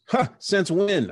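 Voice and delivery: slow, high, loud mocking doubt; older brother teasing about jazz; skeptical scoff. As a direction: drag out a doubtful huh.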